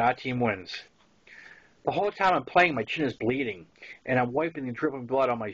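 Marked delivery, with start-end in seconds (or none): none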